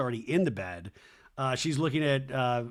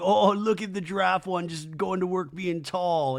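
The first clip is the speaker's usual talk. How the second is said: high-pitched mock delight; imitated childlike wonder; 6 semitones higher, 4 dB louder than usual. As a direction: marvel at it like an excited little boy. Wes marvelling at cartoon giraffe.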